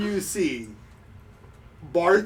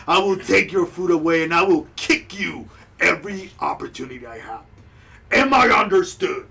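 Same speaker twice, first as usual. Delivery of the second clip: a bit louder, commanding; stern guard; 5 dB louder than usual. Acted. Bartho ordering the crowd to calm down, firm and louder. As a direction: lay down the law. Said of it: "He's like".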